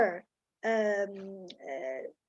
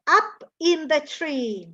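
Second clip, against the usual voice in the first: slow sing-song quote; 2 semitones higher, 4 dB louder than usual. Shown as a demonstration.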